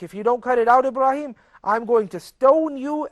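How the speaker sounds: mock angry father. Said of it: "He's seriously angry".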